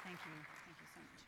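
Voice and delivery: hoarse, worn-out voice; losing voice. Real, not acted. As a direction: speak through a tired, raspy throat. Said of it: "I'm losing my voice".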